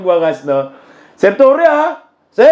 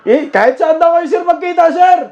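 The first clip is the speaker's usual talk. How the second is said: teasing; 4 semitones higher than usual. Real, not acted. Teasing challenge to the general.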